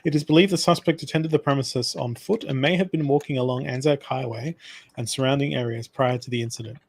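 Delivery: steady newsreader delivery of a crime report; news read. Acted. Reading a news article aloud to his friend, newsreader style. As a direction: read it out like a radio bulletin.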